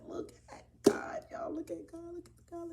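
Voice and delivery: hushed, whispery thankfulness; awed praise. Retold or imitated. Storyteller re-enacting relief that prayers worked, whispered awe. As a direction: marvel under your breath at an answered prayer.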